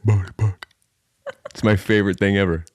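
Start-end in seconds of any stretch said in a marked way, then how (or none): 0.0-0.5 high-pitched doggy coo settling down; friend's baby-talk voice. Retold or imitated. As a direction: imitate a man fussing over a puppy. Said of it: "only words he says to them?".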